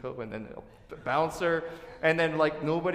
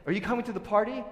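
bright, higher inviting question, a bit louder; cheerful invitation; 9 semitones higher, 5 dB louder, faster than usual. Retold or imitated. A host eagerly inviting a guest to the party. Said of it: "it's like saying".

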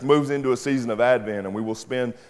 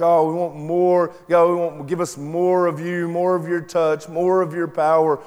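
mock whiny plea, a little higher; lightly imitating a whiny begging song; whiny worship plea; 5 semitones higher than usual. Preacher mocking whiny worship songs, mock whiny plea. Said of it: "being like, crying out, whiny".

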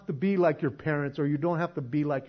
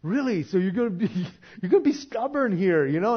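exasperated dad; 3 semitones higher, 5 dB louder than usual. Retold or imitated. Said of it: "It's like".

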